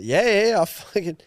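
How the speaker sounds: overacted mate faking alarm; hammed-up surprise. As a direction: play it up loud so he hears. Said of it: "he's like".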